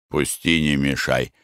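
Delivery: low, drowsy brush-off; sleepy grumble. Acted. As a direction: mumble it half asleep. Sleepy husband brushing her off.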